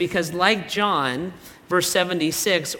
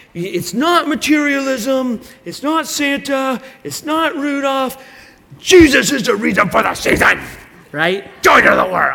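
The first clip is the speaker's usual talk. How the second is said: mock loud, high, angry, fiery preaching voice; 7 semitones higher, 7 dB louder than usual. Retelling how the pastor would preach back at the culture, mock-angry pastor preaching. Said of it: "as a reaction with anger".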